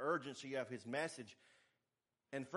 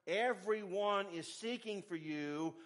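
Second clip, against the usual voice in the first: mock advice; 5 semitones higher, 5 dB louder, slower than usual. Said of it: "He was saying".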